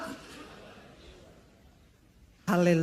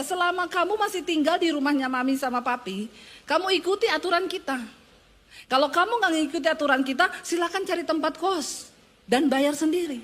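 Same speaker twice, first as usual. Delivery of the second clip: a stern mother laying down the rules, pitched higher; 4 semitones higher than usual. Retold or imitated. Mother warns her child to follow the rules or move out, firmly. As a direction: lay down the house rules to your child, firmly. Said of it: "saya bilang sama anak saya".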